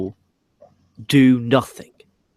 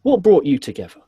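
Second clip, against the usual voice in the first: mock interviewer, pitched up; higher, mimicked reporter question; imitated backstage interviewer; 5 semitones higher, 4 dB louder than usual. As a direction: repeat her question in a put-on presenter voice. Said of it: "I'll do it again".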